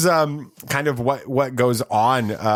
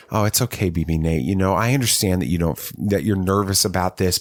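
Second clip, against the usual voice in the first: mock TV dad comfort; 5 semitones lower than usual. Dad to crying son, pretending the comforting version, mild warm sitcom-dad reassurance. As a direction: lightly play the kindly reassuring father. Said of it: "Cliff, Cliff Huxtable type moment".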